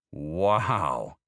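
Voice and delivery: put-on boy hearing the punchline, loud amazed wow; boy's surprised wow. A narrator's reading. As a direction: let the boy gasp at the twist. Boy reacts to twist.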